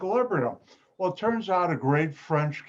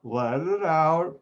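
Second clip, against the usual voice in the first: slow exhale cue; slower than usual. Shown as a demonstration. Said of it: "Take a deep breath".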